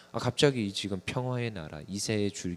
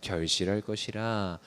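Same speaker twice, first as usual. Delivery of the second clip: scripture reading; 3 dB louder than usual. Shown as a demonstration. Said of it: "일 절 읽어보겠습니다".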